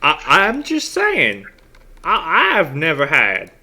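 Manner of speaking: lightly voiced high-pitched arguer; put-on character voice. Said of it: "I did not like that voice".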